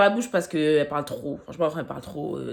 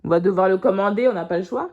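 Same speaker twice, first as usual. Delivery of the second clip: repeated louder for clarity; faster than usual. Real, not acted. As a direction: say it again, louder.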